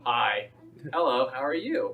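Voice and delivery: lightly put-on polite greeting; white person voice. Showing friends an impression, white person voice. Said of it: "I can do a white person".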